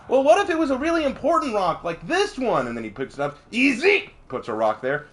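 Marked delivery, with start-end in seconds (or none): 0.1-2.7 high-pitched cartoon wise guy; Bugs Bunny. Rabbit pointing out a problem with the dam, high cartoon voice. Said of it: "Bugs walks down". 3.5-4.1 high, hammed-up French cartoon villain; Black Jacques Jalotte. Dam builder answering the rabbit's challenge, mock French villain voice. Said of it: "so Jacques keeps upping the dam".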